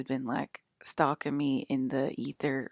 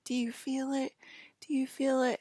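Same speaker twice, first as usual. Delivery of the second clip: high-pitched quoted question, repeated; imitated friend's question; 9 semitones higher than usual. Friend asking over walls as the loosh takes over, imitated high question.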